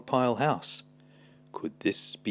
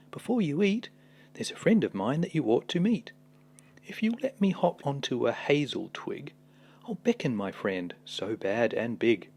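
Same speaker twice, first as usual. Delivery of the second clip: mouse voice; 3 semitones higher than usual. Acted. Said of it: "mouse voiced in story".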